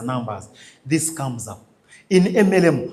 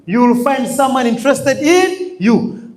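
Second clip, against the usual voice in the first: ordinary talk, nothing marked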